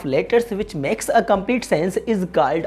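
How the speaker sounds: very slow, each word spaced out; teacher reading a definition aloud at dictation pace. Shown as a demonstration. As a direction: dictate the definition slowly for students to note. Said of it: "अभी मैंने आपसे क्या कहा कि".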